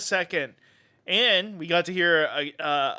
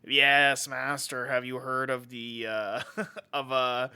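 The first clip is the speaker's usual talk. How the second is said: lower, softer servile henchman; Peter Lorre; 3 semitones lower, 3 dB quieter, slower than usual. Acted. Igor asking his master about comics, low Peter Lorre impression. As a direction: murmur it like an obedient Igor. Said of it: "I'm doing a Peter Lorre".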